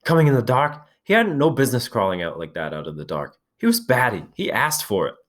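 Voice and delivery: high, shrill self-justifying. A narrator's reading. Piggy defending himself to Ralph, shrill. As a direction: pitch it up, defensive. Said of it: "His voice shrilled again".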